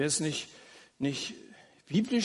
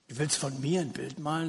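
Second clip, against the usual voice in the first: softer, quietly amazed question from the tramp; a lightly voiced tramp, softly surprised; astonished tramp; 2 semitones lower, 4 dB quieter than usual. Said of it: "Der war ganz erstaunt".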